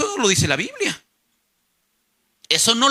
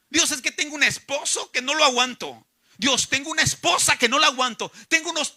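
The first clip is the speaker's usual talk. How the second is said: imitated grumbling, raised in pitch; complaining to God; 5 semitones higher than usual. Creyente que se queja a Dios de su esposo, mock complaining. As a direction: act out a higher-pitched complaint. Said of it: "hoy en día te quejas".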